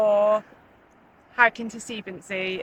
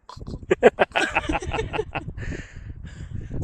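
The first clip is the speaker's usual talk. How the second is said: long breathy yawning sigh; imitated horse yawn; 8 semitones higher, 3 dB quieter than usual. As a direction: act out a horse's big yawn. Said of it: "It went a bit like this".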